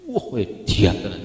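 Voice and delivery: mock-impressed gasp of praise; amazed exclamation. Someone praising tasty food, in exaggerated mock amazement. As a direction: exclaim it as casual, awestruck slang. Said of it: "ngomong kuwi bumbune edan".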